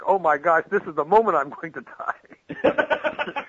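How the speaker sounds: slow, laughing mock alarm; mock panic. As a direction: act out a sudden oh-no moment, amused. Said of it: "It's more like".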